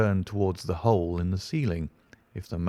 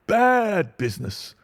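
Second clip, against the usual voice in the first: much higher and louder, pompous; emphatic repeat; 12 semitones higher, 4 dB louder than usual. Acted. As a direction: hammer the phrase home grandly. Inspector repeats phrase, louder.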